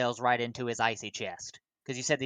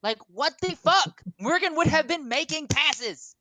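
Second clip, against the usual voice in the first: high, loud laughing disbelief; excited laughing; 4 dB louder than usual. Real, not acted. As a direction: squeal it through laughter.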